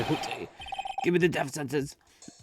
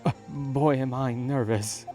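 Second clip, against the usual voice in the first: jittery, higher voice; nervous high voice; 4 semitones higher, 4 dB louder, slower than usual. Acted. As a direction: sound anxious and wound up.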